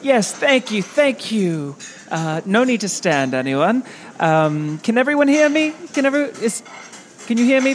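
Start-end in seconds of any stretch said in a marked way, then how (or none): 0.0-0.8 higher, gushing thanks to the crowd. Real, not acted. Greeting the applauding audience. 4.8-7.8 calling out. Real, not acted. Calling out to the room.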